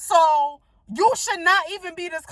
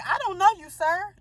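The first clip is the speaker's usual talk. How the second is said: flat, curt brush-off to a stranger; cold dismissal; 4 semitones higher than usual. Retold or imitated. To a pushy customer at the store, curt and cold. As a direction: shut him down politely but firmly. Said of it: "That's exactly how I said it".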